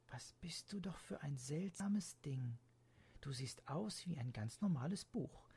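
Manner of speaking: put-on hushed wondering child voice; whispering to the book. Girl whispers to book in bed.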